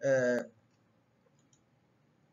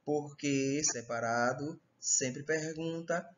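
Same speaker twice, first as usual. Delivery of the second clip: porquê separado sempre pergunta drawn out slowly; slow, deliberate teacher recap; slow reminder; 3 semitones lower, slower than usual. Shown as a demonstration. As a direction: lay the rule down slowly for students.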